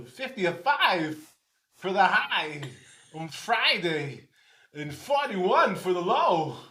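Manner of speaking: mild Christopher Walken impression. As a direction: pause oddly between words like Walken. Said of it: "Christopher Walken".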